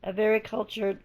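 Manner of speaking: hoarse, voice giving out. Real, not acted. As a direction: push through a hoarse, failing voice. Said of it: "I'm losing my voice".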